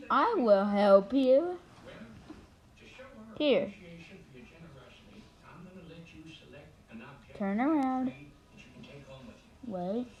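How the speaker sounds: deep helper voice. Acted. Helper voice in kids' skit.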